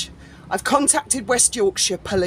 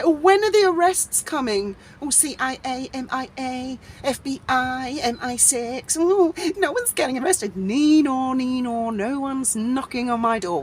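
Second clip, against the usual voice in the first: mocking taunt; 3 semitones higher than usual. Online scoffers laughing at talk of arrests, mocking. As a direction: taunt in a singsong mock voice. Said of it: "they used to laugh at us".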